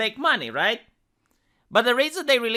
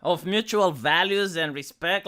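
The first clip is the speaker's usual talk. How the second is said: mocking; 2 semitones lower than usual. Real, not acted. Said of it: "I really hate this thing".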